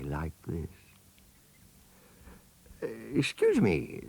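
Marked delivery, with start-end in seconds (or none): 2.8-4.0 put-on polite elephant's child. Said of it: "said the elephant's child most politely".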